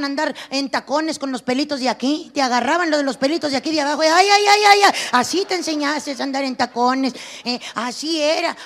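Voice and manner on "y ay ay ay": high loud ay ay ay, hammed-up pain; mock cries of pain. Comedian mimicking a girl's yelps as her hair is pulled. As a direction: yelp like your hair is being yanked.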